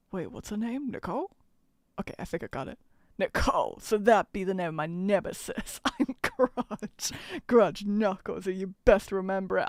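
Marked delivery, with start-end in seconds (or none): 3.2-9.7 attempted Brooklyn accent, sizing up a nemesis. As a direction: introduce yourself in a makeshift Brooklyn accent. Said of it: "clearly got a Brooklyn accent type of deal".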